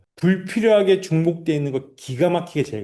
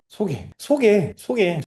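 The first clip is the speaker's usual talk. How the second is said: slow, higher, repeated 소개, each one weighted; emphasis on 소개; 5 semitones higher, much slower than usual. Shown as a demonstration. Coach drilling agents to push referrals, 소개 stressed slowly. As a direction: drum in 소개 slowly, word by word. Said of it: "소개라는 거를 강조하라는 거예요".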